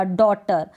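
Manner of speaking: डॉटर with no gh sound; silent gh. Shown as a demonstration. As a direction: say डॉटर plainly. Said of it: "सुनाई दे रहा होगा". (डॉटर, जीएच silent)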